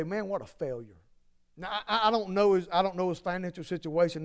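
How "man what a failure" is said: mock scorn. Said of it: "the world will look at them and say".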